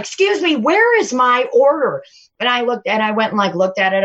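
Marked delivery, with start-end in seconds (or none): 0.0-2.0 higher-pitched mimicked demand; demanding customer. Server imitating the Postmates man wanting his order, pushy higher voice. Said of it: "he's like".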